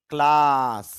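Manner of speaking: ক্লাস with a long a; long vowel. Shown as a demonstration. Teacher models the long vowel in ক্লাস. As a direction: stretch the a in ক্লাস. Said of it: "দীর্ঘ উচ্চারণ হবে".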